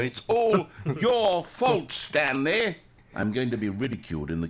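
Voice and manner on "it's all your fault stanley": accusing. Acted. Narrator blames Stanley dramatically.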